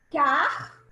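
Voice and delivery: "Car" said as a separate syllable; syllable split. Shown as a demonstration. Teacher splits carro into syllables, saying "Car" alone. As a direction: cut "Car" off cleanly. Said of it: "como a gente separa carro?".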